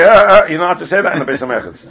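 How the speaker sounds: laughing through a mock reply; laughing retort. Retelling the yeshiva shower joke, laughing. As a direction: chuckle it out as the quip.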